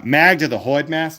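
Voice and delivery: "Magda the Hordemaster" in a mock Boston accent, Hordemaster as hoidmasta, dropped r. Friend asks for it, so he redoes the card name in a Boston accent. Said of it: "You didn't do that one in a Boston accent?".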